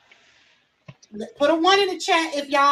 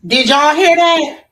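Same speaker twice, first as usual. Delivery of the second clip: incredulous call-out; 2 semitones higher, 6 dB louder, slower than usual. Real, not acted. Stunned, repeating to the chat.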